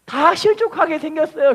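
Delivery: mildly fretful plea to God; imitating an anxious prayer. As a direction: pastor acting out a worried preacher praying. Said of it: "그 기도를 하는 거예요".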